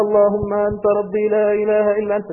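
fast, loud, rattled-off prayer by habit; rushed rote recitation. Shown as a demonstration. Preacher mocking how youths recite it fast. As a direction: rattle it off without feeling. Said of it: "مش عايزكم تقولوها زي ما بنعملها كده".

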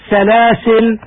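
سلاسل ending on a silent lam, with no alif; stop on a sukun. Shown as a demonstration. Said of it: "الوقف بالسكون هكذا". (الوقف على سلاسل بالسكون)

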